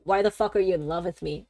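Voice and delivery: unimpressed, quick deadpan question; imitating a deadpan girl. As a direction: ask it bluntly, giving nothing away. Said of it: "she's so deadpan".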